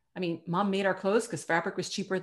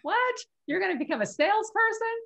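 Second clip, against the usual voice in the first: much higher, incredulous "What? What?"; imitating shocked friends; 12 semitones higher than usual. Retelling friends' reaction to her choosing sales, shocked and much higher. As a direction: mimic friends' disbelief at her career choice. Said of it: "a lot of people were like".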